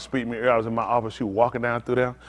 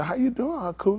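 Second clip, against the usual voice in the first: own line demo; 8 semitones higher, 7 dB quieter than usual. Shown as a demonstration. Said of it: "And I'm gonna say".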